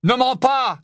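loud, high command; angry interruption. Acted. Ron cuts off Hermione's denial, angry. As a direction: cut her off sharply and loudly. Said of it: "lui lança Ron".

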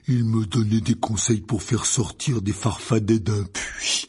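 slow, grumbling giant; lumbering, disgruntled gamekeeper; Hagrid. Acted. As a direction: report it sourly in a thick, slow voice. Narrator voices Hagrid.

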